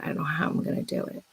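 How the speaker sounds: whispered, falling away fast; hushed despairing whisper. Retold or imitated. Recalling daily money worries, now a fast despairing whisper. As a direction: breathe it out in quiet despair. Retold daily worry, repeated.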